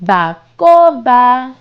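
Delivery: bacoba drawn out, syllable by syllable; slow model word. Shown as a demonstration. Teacher repeating bacoba slowly with the child. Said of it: "Let's say it again".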